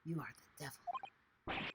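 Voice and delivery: slow, theatrical accusation; hammed-up accusing character voice; dramatic accuser. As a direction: slowly denounce the intruder.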